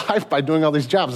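ordinary delivery

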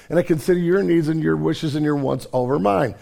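normal talking voice

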